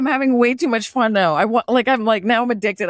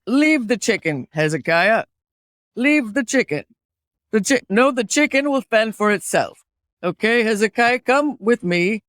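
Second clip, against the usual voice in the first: put-on Pennsylvania Dutch accent. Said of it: "do a Pennsylvania Dutch accent".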